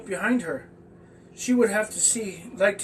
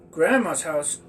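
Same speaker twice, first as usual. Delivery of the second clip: enthusiastic slobber; 2 semitones lower, 5 dB louder, slower than usual. Acted. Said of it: "slobbered Oscar enthusiastically".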